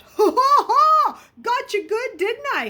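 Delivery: high, loud cackling gloat; mocking laugh. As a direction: crow over your prank with laughter. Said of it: "Raleigh laughed".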